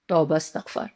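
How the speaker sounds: mock gossip whispered under the breath; a scandalised aside, whispered softly. Woman quoting society gossip about a sharp tongue, whispered. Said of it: "society میں ہمیں یہ سننے کو ملتا ہے".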